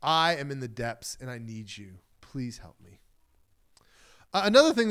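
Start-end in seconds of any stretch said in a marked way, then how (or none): 0.0-3.0 quiet, fading to a whisper; a whispered plea for help at the close; hushed cry for help. Retold or imitated. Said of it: "we cry out and we say".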